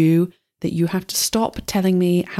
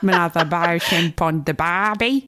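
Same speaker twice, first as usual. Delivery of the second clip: mock Australian. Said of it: "someone being like".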